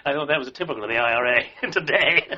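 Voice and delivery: amused, laughing as he tells it. Real, not acted. Old officer recounting IRA man's joke, laughing. Chuckling at his own story.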